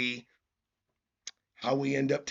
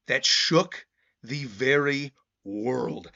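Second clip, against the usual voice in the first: measured, emphatic narrator with pauses; dramatic story narration. Acted. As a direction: read it like an epic closing caption. Reads manga narration dramatically.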